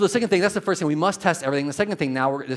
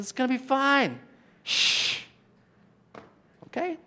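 soothing; 12 semitones higher than usual. Retold or imitated. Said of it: "he says".

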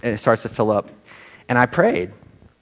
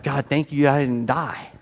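quiet relief; 5 dB quieter, slower than usual. Retold or imitated. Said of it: "I've been like".

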